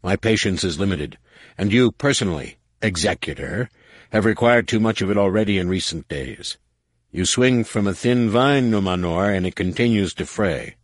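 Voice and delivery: cold threat from a commander; a warlord warning his underling; menacing warlord. Acted. War Master threatens Nomanor.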